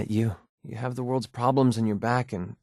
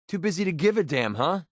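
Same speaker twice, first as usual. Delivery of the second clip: higher-pitched, needled challenge; irritated accusation; 6 semitones higher than usual. Acted. Confronting someone who doesn't care, irritated. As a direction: throw it out as an annoyed jab.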